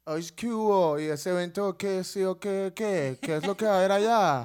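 lightly sing-song Colombian query; imitated Colombian accent. Colombians writing about the live show, lightly imitated Colombian accent. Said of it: "me han escrito colombianos y que".

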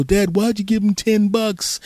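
put-on high, slow bewildered kid; hammed-up confused son; mock baffled kid. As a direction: ask like a stunned child.

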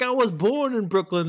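squeaky, high-pitched indignant protest; hammed-up outraged Brooklyn kid. Buggin' Out protesting to the Boston guy, high hammed-up indignation. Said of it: "He's like".

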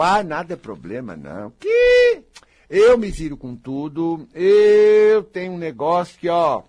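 high, loud dismissive voice brushing off any problem; carefree denier. Acted. Speaker mimics a carefree person who shrugs off trouble, loud and breezy.

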